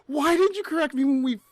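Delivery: half-joking frustrated plea; mock annoyed rant; retold exasperation. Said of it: "And I'm like".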